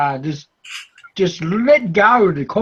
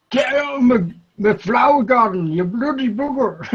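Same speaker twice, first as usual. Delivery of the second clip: mock Pommy aunt; 4 semitones higher than usual. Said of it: "their favourite one was".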